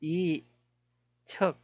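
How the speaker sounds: 이척 very slowly, a long gap between 이 and 척; sounding out. Shown as a demonstration. Presenter working out a prince's name, slow syllable-by-syllable sounding-out. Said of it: "읽어야 되나".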